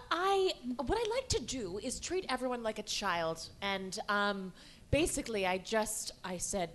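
ordinary talk

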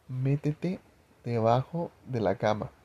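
retold hushed instruction, slowly spaced out; despacito, imitado. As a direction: mimic mouthing it slowly, a little softly. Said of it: "lo dijo despacito". (despacito, como articulando sin voz)

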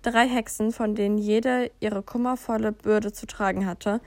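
calm, even storybook voice; fairy-tale narration. A narrator's reading. Reading a wizarding fairy tale to a friend, calm storytelling. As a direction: tell it like a bedtime fairy tale.

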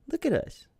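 sudden very high, goofy squeak; squeaky high. Shown as a demonstration. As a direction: squeal it like a cartoon kid. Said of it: "high goofy repeat".

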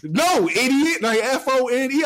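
high, loud mock mother scolding; hammed-up angry mom voice; imitated scolding mom. Mom insulting.

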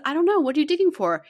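high and loud, playfully puzzled; retold loud question to her son. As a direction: ask the toddler loudly, half laughing.

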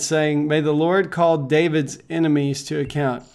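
measured Bible reading to the congregation; scripture reading. Acted. Reads scripture aloud.

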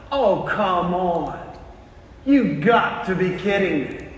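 drawn-out acted disbelief; exasperated. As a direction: groan in mock dismay at the lunchbox. Worker exasperated at lunch, acted.

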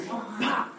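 high imitated smack; punch sound effect. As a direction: spit out a punch noise.

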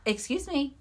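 high, startled excuse me; imitating her own startled question; mock shock. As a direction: act out a shocked double take. Retold shock at the skin.

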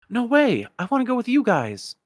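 insist, refuse to be left; protesting shout. Acted. Ven protests being sent home.

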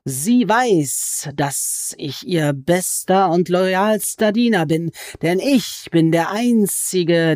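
high, slow, wheedling creature voice that climbs on each nein; sly goblin voice. Acted. Goblin crouched over Alice, complaining she is a sorceress, in a high sly voice. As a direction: stretch the words like a gloating, sulky goblin.

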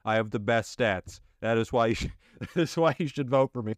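rousing rally speech, building up; ranting dictator speech. Acted. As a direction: fire up the crowd like a demagogue. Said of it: "I decided to do a speech".

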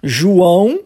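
"João" said the Portuguese way, with nasal ending. Shown as a demonstration. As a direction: show the Portuguese name "João" clearly. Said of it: "olha só que há uma diferença".

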